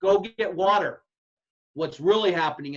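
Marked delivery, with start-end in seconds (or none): 0.0-1.0 loud, slow call to the team. Retold or imitated. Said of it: "blow the whistle and say".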